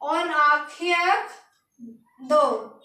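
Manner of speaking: on आंखें दो said slowly, on ankhen do; slow, careful on आंखें दो; French en arrière de. Shown as a demonstration. Teacher models French for behind, slowly. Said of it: "क्या बोलेंगे?".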